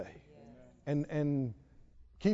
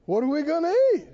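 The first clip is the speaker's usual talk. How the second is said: panicked worry; 8 semitones higher, 5 dB louder, faster than usual. Retold or imitated. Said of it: "What will you be tempted to say?".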